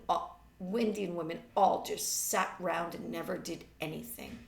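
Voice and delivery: put-on mild teen-girl voice, explaining to her mother; lightly voiced Marjorie. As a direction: airily voice the girl's theory, lightly. Reads Marjorie's speech.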